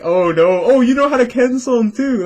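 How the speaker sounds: high excited praise; impressed Japanese person. Retold or imitated. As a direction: gush in surprise, pitched high. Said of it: "be like".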